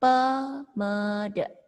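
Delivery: pemede said with e in the first syllable, pe-me-de; Balinese pronunciation. Shown as a demonstration. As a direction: read it as pemede, not pamede. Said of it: "tapi dibacanya". (pemede dibaca dengan e)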